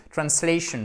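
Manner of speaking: "Translation" with a gliding ay in -la-; English "Translation", clear ay glide; diphthong. Shown as a demonstration. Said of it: "pensez bien à la diphtongue".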